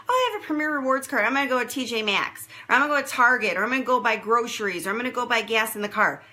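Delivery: mock eager shopper, rattling off errands; chirpy customer listing stores, half-hearted mock. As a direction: play the shopper who wants to spend it everywhere. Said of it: "So they do not want you to go".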